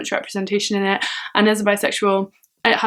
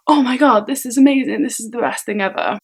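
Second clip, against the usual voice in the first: mock gushing; 3 semitones higher than usual. Describing how the book doesn't feel, mock gushing. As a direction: gush like an over-the-top fan. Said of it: "It's not like".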